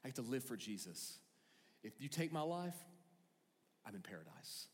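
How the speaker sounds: musing serenely to himself; a hushed, peaceful Paul; calm Paul. Retold or imitated. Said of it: "and go".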